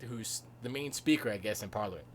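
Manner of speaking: usual speaking voice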